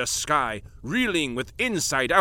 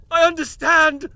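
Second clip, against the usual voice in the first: much higher and louder cry of discovery; excited cry; 12 semitones higher, 7 dB louder than usual. Acted. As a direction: burst out with the revelation. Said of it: "the professor cried".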